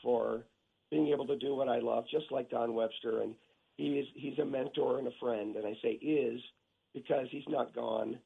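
hoarse, scratchy throat; talking through a sore throat; rough throat. Real, not acted. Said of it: "Sorry about my throat".

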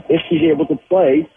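"if" is the stressed word of the phrase. Shown as a demonstration. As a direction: hit the word "if" and hold it a moment. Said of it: "and I emphasize the word if".

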